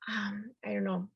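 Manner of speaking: whispered aside. Real, not acted. Searching for word, whispered.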